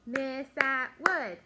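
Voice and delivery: loud, slow, separated syllables; clapped syllables. Shown as a demonstration. Teacher clapping out a colleague's name, loud syllable by syllable. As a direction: punch out each syllable on a clap. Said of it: "Let's clap it".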